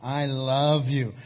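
slow, reluctant, dragged out; a mock tough guy who can't say it; forced out like the Fonz. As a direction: squeeze the words out like they're stuck. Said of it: "You just couldn't bring it out and say it".

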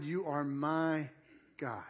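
quietly weight the word "my"; stress on MY. Shown as a demonstration. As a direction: hold "my", then pause before the last word. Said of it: "whenever you use the word my".

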